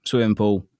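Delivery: casual southern English on pool; everyday southern English, pool sounding like Paul; relaxed southern English vowels; natural southern English accent. Shown as a demonstration. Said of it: "then how I do it".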